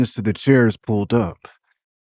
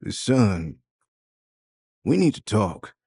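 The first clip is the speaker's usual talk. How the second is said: firm father. A narrator's reading. Father to his son, a hint of firm stern voice. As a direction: set the talk down firmly as dad. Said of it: "His father's voice is firm".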